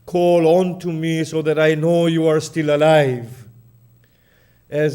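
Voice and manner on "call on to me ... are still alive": louder calling lament. Acted. Zainab calling to her brother to know he lives, loud call. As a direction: call back across the field. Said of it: "calling out".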